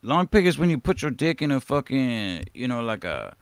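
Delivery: clumsy Hispanic accent put on for a laugh; bad Hispanic accent. Joking with stream cohosts about long pig, in a poor mock Hispanic accent. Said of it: "I should be better at the fucking Hispanic accent".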